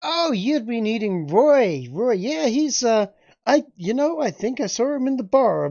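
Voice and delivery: put-on slow, high folksy old-time American drawl; old American accent. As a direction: lay on a frontier townsman accent, slow and high. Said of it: "is your intention of a fucking Irish accent".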